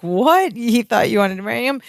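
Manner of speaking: a touch of mock bewilderment; confused. Podcaster as Larry learning of the misunderstanding, mildly confused. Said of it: "very confused".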